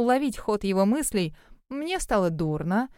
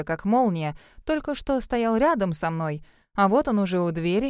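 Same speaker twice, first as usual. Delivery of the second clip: usual speaking voice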